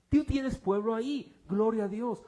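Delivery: loud, high burst of wonder at God's guidance; amazed praise. Retold or imitated. Preacher reliving the team's amazed prayer, loud and high. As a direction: shout it out like a sudden revelation.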